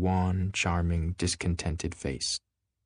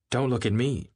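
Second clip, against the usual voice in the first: retort; 4 semitones higher than usual. Acted. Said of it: "Daisy retorted".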